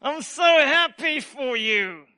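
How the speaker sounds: slow, strained congratulations through a forced smile; fake happy. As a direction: pretend to be happy for them while dying inside. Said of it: "You're smiling outside, but inside you're dying".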